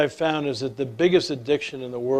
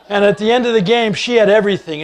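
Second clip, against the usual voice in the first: laughing; 7 semitones higher, 12 dB louder, faster than usual. Real, not acted. Laughing through the punchline.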